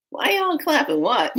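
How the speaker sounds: high, startled question; acted bafflement. Newcomer questions the clapping crowd, acts baffled. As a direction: act thrown by the applause. Retold baffled reply to applause.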